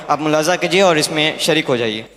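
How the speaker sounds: normal talking voice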